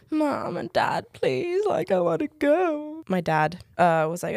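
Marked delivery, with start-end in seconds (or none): 0.1-3.0 high-pitched retold plea to parents; pleading child. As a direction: beg Mom and Dad in a much higher voice. Begging parents to let her go.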